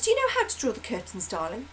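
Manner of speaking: put-on high sing-song voice to a child; sweet talking to a child. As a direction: coax a toddler gently. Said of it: "And he goes".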